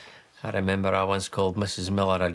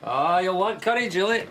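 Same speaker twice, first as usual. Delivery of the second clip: eager urging; 10 semitones higher than usual. Acted. Dad urging curry.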